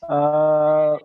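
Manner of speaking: choppy, cutting out connection; radio breaking up. Real, not acted. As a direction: voice dropping in and out over a bad line. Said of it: "you're breaking up a little".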